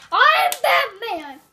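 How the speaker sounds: slow, lightly played superhero; Batman. Kid insisting on being the hero, slow mock Batman voice. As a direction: stretch out the pretend hero's name. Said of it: "You're Batman".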